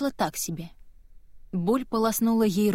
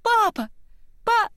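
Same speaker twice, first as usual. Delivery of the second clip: very high, loud scream cut short; 14 semitones higher, 4 dB louder than usual. Acted. Girl screaming for father, knocked out mid-word. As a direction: scream for papa until cut off.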